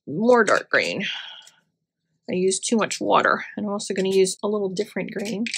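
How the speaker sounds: talking around a pen in mouth; words muffled by a pen between teeth. Real, not acted. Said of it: "I put the pen in my mouth and you can't understand me".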